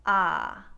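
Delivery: flat nasal American ah, loud; wide nasal ah. Shown as a demonstration. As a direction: spread the ah wide through the nose. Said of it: "pronounce it with the wide nasal".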